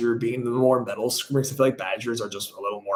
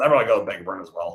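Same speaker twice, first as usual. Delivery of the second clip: plain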